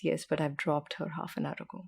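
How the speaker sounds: softly voiced calm reply. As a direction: retell a calm, unruffled answer quietly. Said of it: "very calmly looks at Nomi and says".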